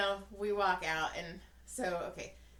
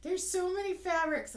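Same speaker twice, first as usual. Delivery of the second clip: lightly voiced excited old lady, higher; 9 semitones higher, 4 dB louder than usual. Old lady in fabric store, lightly voiced gushing. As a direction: gush like a delighted old lady. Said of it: "little old lady was like".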